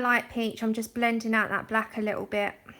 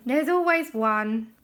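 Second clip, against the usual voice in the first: weary exasperation; 5 dB louder, slower than usual. Real, not acted. Exasperated about trolls.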